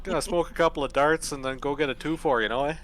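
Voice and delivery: hammed-up Canadian hoser accent, laughing at the end; bad Canadian accent. Mocking Canadians for the group, bad Canadian accent. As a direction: goof around in a thick fake Canadian accent. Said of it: "my bad Canadian accent there".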